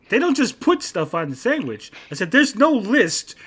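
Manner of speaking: high, slow, emphatic retold argument; exasperated insistence. Son explaining Subway to his dad, exasperated. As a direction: spell it out in mounting exasperation.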